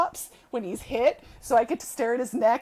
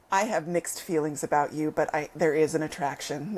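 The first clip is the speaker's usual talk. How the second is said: conflicted; 7 semitones lower than usual. Retold or imitated. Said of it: "with Caleb going".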